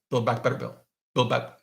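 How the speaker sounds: quick tongue-twister try at BUILD BACK BETTER BILL; tongue-twister attempt. Shown as a demonstration. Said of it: "say that three times fast".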